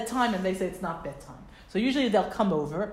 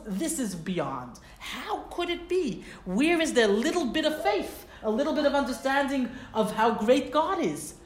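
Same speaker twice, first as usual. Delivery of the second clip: pained disbelief, rising high; Moshe's anguish; 4 semitones higher than usual. Retold or imitated. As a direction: say it as a hurt leader who cannot believe it. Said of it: "He feels".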